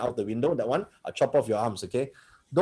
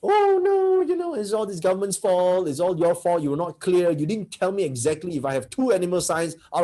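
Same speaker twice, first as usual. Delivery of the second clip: high, whining mock complaint, mostly at normal volume; a hammed-up victim, squeaky on the first words; whiny victim; 4 semitones higher than usual. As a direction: mimic a self-pitying complainer blaming everyone. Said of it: "they have victim mentality".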